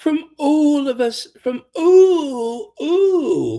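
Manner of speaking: high, loud, posh "ooh" squeezed out with strain. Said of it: "You have to say it like ooh".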